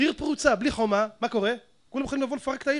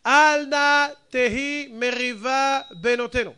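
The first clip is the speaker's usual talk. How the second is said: scripture recitation. Acted. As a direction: recite the verse deliberately, drawing out the words. Recites a Bible verse.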